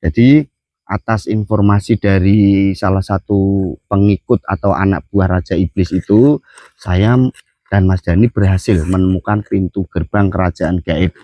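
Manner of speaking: talking around a cigarette; smoking while talking; cigarette in mouth. Real, not acted. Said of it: "sambil ngerokok biar santai saja".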